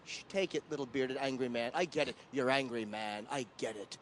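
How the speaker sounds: soft, low mocking hush to a heckler; hushed, patronising taunt; condescending hush. Real, not acted. Mocking heckler as little boy.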